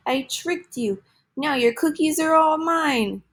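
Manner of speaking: cried. Acted. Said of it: "cried Big Bad Pete".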